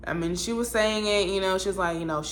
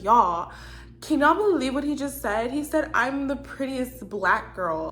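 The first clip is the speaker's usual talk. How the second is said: mock gloating; 5 semitones higher than usual. Amy comes up to her friends to gloat, mock bragging. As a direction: play a woman showing off a compliment to her friends. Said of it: "getting ready to gloat about it".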